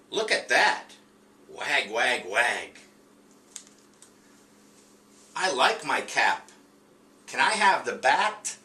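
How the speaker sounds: a touch of the storybook dog; reading the dog's lines to first graders, lightly voiced. Teacher voices dog in read aloud.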